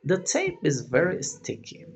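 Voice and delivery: slow, clear English example; slow model sentence. Shown as a demonstration. Teacher reading an example sentence to students slowly.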